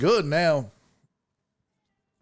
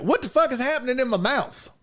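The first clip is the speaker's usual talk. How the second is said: mock bewildered; 9 semitones higher, faster than usual. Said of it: "I'd be like".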